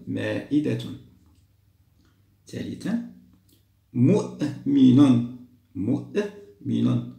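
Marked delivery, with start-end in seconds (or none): 3.9-5.4 مؤمن read very slowly and louder; teacher dictating slowly; slow model word. Shown as a demonstration. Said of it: "نختار الهمزة على الأل-، الألف أم على الواو؟". 5.7-7.1 مؤمن drawn out slowly, normal level; slow classroom repetition; slow model word. Shown as a demonstration. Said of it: "نختار الهمزة على الأل-، الألف أم على الواو؟".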